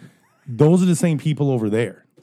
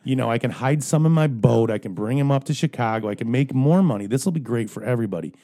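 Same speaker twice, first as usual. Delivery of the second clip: mocking eager angler; 2 semitones higher, 4 dB louder than usual. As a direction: play the greedy fisherman, overeager. Mocks an eager tournament angler.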